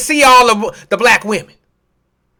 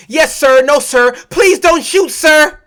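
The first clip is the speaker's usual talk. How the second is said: pleading submission; 3 semitones higher, slower than usual. Acted. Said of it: "teaching your children how to act around police".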